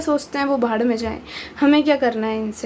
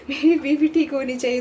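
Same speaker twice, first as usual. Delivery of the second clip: laughing. Retold or imitated. Same partner quote repeated, laughing.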